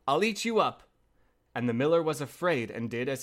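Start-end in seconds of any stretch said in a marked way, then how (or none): 0.1-0.8 high-pitched menacing wolf; wolf crying out. Acted. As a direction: raise the pitch on the threat. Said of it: "cried the wolf".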